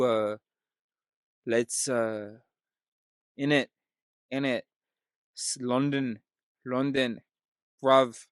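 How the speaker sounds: shaky attempt at London slang accent; attempted British accent. Shown as a demonstration. Warming up for a British accent, halting London attempt. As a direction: try out a British accent word by word. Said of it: "I really can't do a British accent".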